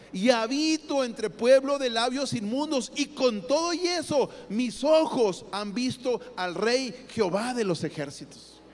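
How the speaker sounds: slow, trembling-free but grave lament; slow, mournful prophet's confession. Acted. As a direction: confess it slowly like a man who expects to die. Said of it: "Porque dijo".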